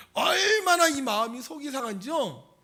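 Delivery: usual speaking voice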